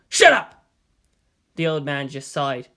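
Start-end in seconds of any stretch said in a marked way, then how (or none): 0.1-0.7 loud, high shout of Shut up; a jumpy thug yelling at the shopkeeper; robber's yell. A narrator's reading. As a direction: shout him down in a panic. Robber snaps at the old man.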